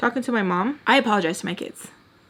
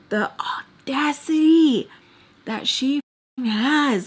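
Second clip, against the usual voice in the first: outraged; 5 semitones higher, slower than usual. Real, not acted. Venting about the nerve of her, outraged.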